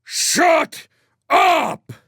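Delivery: very high, loud scream, word by word; furious scream with a break between the words; screamed order. A narrator's reading. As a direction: scream each word at the prisoner. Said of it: "screamed the squad leader".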